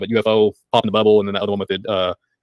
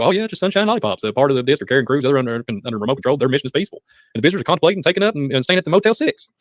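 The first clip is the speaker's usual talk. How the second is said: mock-cheery, pitch climbing higher toward the end; sing-song sarcasm, building higher; sarcastic; 4 semitones higher than usual. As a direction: lay on the sarcasm, bright and rising. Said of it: "I'm being sarcastic".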